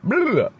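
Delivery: high-pitched nonsense babble; mock editing noise. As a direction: babble it high to blot out the slip. Covering the outburst to be cut.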